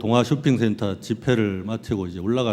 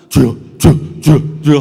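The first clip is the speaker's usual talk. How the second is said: loud frantic cries of Lord; shouting to God as the car skids; desperate yelled 주여; panicked prayer; 9 dB louder than usual. Retold or imitated.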